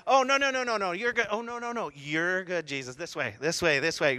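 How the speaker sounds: insistent, coaxing redirect; pushy guide. Retold or imitated. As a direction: steer Jesus back with mock urgency. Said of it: "I'd be a little aggressive".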